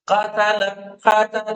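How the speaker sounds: short, unstretched vowel in "قاتل"; "قاتل" without lengthening the vowel. Shown as a demonstration. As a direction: say "قاتل" with the first vowel kept brief. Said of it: "لہذا کوتا کو کوتا رکھیے گا".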